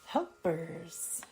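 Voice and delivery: unhurried yoga nidra guide, pausing between phrases; calm meditation voice; guided meditation. Acted. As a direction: settle listeners into rest with spaced-out phrases.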